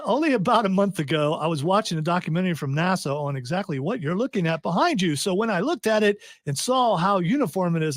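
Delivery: amateur attempt at Irish; clumsy Irish impression; put-on Irish accent. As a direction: keep trying the Irish accent. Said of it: "I'm not gonna do my accent anymore".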